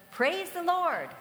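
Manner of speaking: loud, slow, high proclamation; drawn-out shouted praise; joyful shout. Retold or imitated. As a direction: call it out from the porch for all to hear. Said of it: "and shout".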